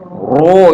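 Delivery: "ro" over-rounded toward roo; exaggerated pursed vowel in "ro"; fattened ro. Shown as a demonstration. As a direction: push the lips out on "ro". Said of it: "itu namanya menggemukkan ro".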